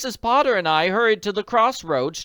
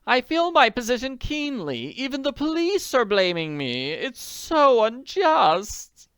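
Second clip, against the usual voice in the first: much higher and louder, tearful lady pleading; on the verge of sobbing; 13 semitones higher, 9 dB louder than usual. A narrator's reading. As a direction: lament like she is about to cry. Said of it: "began to sob into her handkerchief".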